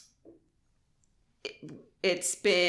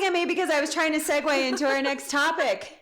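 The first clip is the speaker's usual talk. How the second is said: holding back laughter; trying not to laugh; stifled giggles; 7 semitones higher than usual. Real, not acted. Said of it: "I'm trying not to laugh on microphone".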